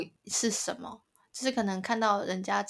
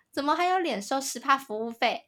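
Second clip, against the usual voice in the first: higher, mock-outraged question; hammed-up indignant rant about the fee; mock indignant girl; 6 semitones higher than usual. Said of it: "这个女的就大爆发".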